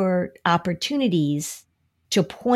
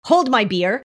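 higher-pitched, playful voice of a bold character; cocky worry; 6 semitones higher than usual. Acted. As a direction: act out overconfident worry, lightly hammed up. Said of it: "Where he says".

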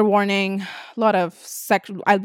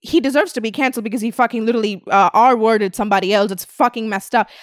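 indignant critic; 2 semitones higher, 4 dB louder than usual. Retold or imitated. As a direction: play the outraged critic. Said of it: "other people who are like".

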